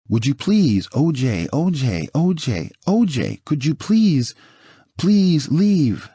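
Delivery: a lightly voiced frightened wife pleading; desperate pleading. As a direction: beg him to leave, voice climbing toward a sob. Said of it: "Nicole is sobbing by this time".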